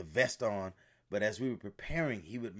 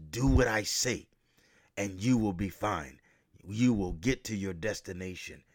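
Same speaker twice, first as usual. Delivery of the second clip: louder, firm order; commanding guide; 3 dB louder than usual. Retold or imitated. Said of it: "He said it like this".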